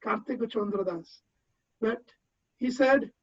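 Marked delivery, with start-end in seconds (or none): 0.0-1.2 put-on Kartik Chandra Das in a soft Bengali accent, Kartiko Chondro Das with rounded o vowels; quiet Bengali-accented Kartik Chandra Das, vowels turned to o. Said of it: "In his Bengali accent".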